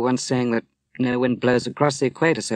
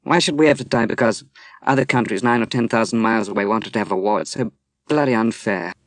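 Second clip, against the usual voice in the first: indignant protest; 3 dB louder, faster than usual. Acted. Moira protesting the unfair fallout.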